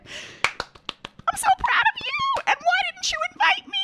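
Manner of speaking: gushing proud squeal; excited. Real, not acted.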